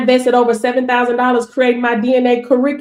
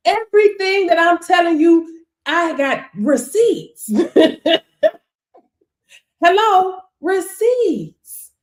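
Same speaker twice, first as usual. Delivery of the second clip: laughing boast; 6 semitones higher, slower than usual. Real, not acted.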